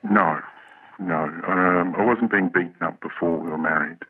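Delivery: electronically altered voice; disguised deep voice. Real, not acted. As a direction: voice masked for privacy. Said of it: "We've altered his voice".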